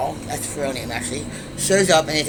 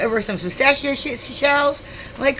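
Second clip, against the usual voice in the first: high-pitched incredulous questioning; incredulous retort; 8 semitones higher than usual. Retold or imitated. Woman to bar owner throwing her out, incredulous. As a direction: act out a baffled, indignant comeback. Mocks being kicked out over shells.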